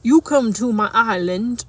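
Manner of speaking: badly faked Jamaican accent. Accents game clue for a partner, shaky attempt at Jamaican accent.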